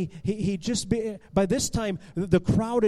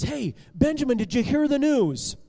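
higher, excited calling; breaking urgent news; 5 semitones higher, 4 dB louder than usual. Acted. Eli racing to Benjamin's house, excited and urgent. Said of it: "Eli comes racing to Benjamin's house".

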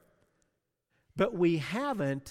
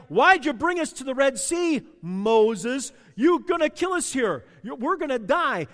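loud, higher mock complaint at Moses; grumbling shout; 4 semitones higher, 5 dB louder than usual. Israelites at the Red Sea blaming Moses, loud complaining. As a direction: whine it up at Moses like a scared crowd.

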